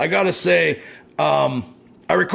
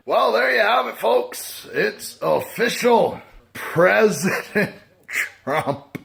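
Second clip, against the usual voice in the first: higher, halting proclamation; mock announcement; 5 semitones higher, slower than usual. Real, not acted. Vlogger telling folks the result, halting mock announcement. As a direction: drag out the bad news.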